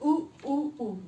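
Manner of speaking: "Ooh, ooh, ooh" as separate long U sounds; long vowel sound. Shown as a demonstration. Teacher showing the vowel in June, long U sound. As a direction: sound out each "ooh" distinctly. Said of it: "It's a long vowel".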